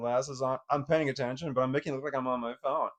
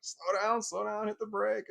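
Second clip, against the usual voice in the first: imitating nervous mom; 10 semitones higher than usual. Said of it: "her mom just like".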